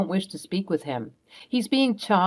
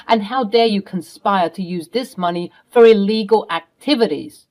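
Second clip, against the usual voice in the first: angry scolding. Acted. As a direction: tear into him line by line. Mother scolds Tom for his crimes.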